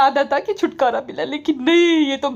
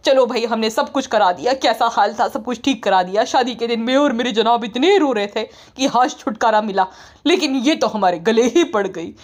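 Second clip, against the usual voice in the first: lower, fed-up complaining wife; lightly lowered sulky wife; grumbling wife; 3 semitones lower than usual. Retold or imitated. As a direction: moan about the in-laws in a lowered voice. Voicing the wife's long rant.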